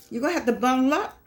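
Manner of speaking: quick, laughing advice to bundle up; chuckling through a fast friendly warning. Real, not acted. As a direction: tease them about the cold and laugh it off. Joking warning about cold weather.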